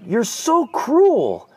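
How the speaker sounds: high, slow, whining mock complaint; imitating a sulky son, high and drawn out; whiny teen son. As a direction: stretch it out like a sulky kid.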